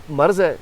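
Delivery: مرض as one syllable, marz; Urdu pronunciation. Shown as a demonstration. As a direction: say مرض with r straight into z. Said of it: "ان کو والے مرض کہتے ہیں".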